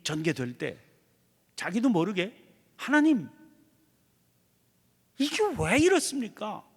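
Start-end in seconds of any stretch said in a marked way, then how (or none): 2.8-6.7 higher, louder plea of complaint; complaining to God. Retold or imitated. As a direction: cry out to God, bewildered. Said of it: "이렇게 되는 때 없습니까?".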